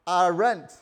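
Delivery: high, loud panicky cry; hammed-up panic about the rent; mock panic. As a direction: disciples panicking over who pays the rent. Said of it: "I'm sure they were like".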